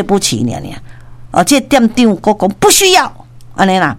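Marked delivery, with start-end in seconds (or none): 2.6-3.1 1 firm refusal. Retold or imitated. Manager refusing again.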